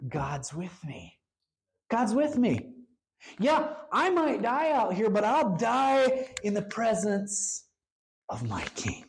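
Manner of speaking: quoted with steady, emphatic conviction; bold confidence. Retold or imitated. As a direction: unshaken believer, voiced with resolve. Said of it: "You see that boldness, that confidence".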